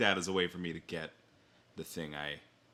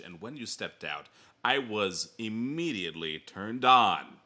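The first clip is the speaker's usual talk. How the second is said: reading a sleazy personal ad, lightly; slow, deadpan dramatic ad read; bad acting. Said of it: "the main reason I wanted to read this".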